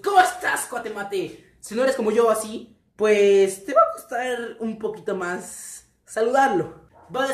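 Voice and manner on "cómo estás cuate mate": loud breezy greeting. Shown as a demonstration. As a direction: greet him like an old pal. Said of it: "desapenado que llegas y tú".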